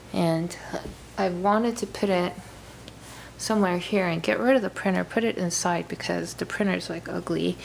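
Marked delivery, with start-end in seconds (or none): 4.6-7.6 talking through a mouthful of cereal; eating cereal. Real, not acted. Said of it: "I was eating my cereal".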